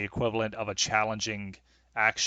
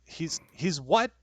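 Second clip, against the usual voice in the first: stern mom; 4 semitones higher, 6 dB louder than usual. Acted. Mom demands son.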